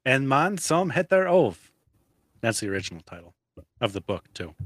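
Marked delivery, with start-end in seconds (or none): 0.0-1.7 Swedish accent. Shown as a demonstration. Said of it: "That's a pretty good Swedish accent".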